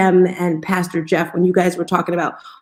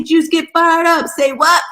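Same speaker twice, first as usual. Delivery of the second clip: retold cheer; 8 semitones higher, 3 dB louder, slower than usual.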